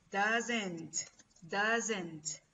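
DOESN'T sounded out as two separate, careful syllables; pronunciation demo. Shown as a demonstration. Teacher showing students how doesn't is pronounced, careful demo. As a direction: model "doesn't" clearly for learners, falling at the end. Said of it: "La pronunciación es".

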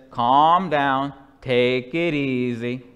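a lightly voiced stress-toy line, slow; a hint of a gadget's calm recording; lightly mimicking the squeeze toy's slow voice. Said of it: "and a voice says".

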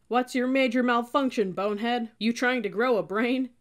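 loud, high drill-sergeant tirade; angry berating. A narrator's reading. First sergeant berates cadet over the pen, angry yell. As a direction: tear into the recruit at full volume.

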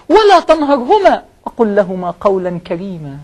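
slow, measured verse recital; scripture recited slowly; Quran recitation. Acted. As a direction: draw out each word of the verse.

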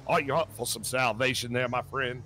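measured reverend voice; preacher's invitation. Pretend. Reverend invites a man to salvation, measured preaching. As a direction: put the question smoothly, like an evangelist. First asking of the congregant.

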